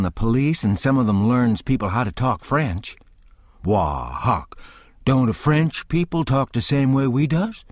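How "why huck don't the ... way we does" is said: Jim drawing out a baffled question; puzzled Jim. Acted. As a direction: sound honestly confused by the French. Jim puzzled about French.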